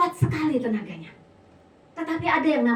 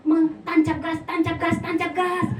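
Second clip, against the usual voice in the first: higher, hard-driving repeated chant; mock the over-forceful delivery, pitched up; full-throttle intonation; 5 semitones higher than usual. Husband warns his wife about her intonation, mock full-throttle. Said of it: "intonasinya jangan".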